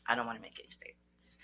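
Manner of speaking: very soft, low, near-whispered reply; calm refusal. Shown as a demonstration. Coach modelling a reply to police, calm refusal. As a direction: decline quietly and evenly. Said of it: "And talk slow".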